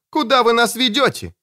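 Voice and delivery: high-pitched, distressed question; alarmed demand. A narrator's reading. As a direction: cry it out as a frightened captive. Captured Katherine demands an answer.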